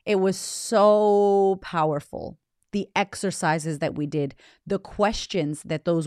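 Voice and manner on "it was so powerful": slow, drawn-out, louder; lingering on every word in awe; awed emphasis. Real, not acted. To listeners about the retreat, slow and awed.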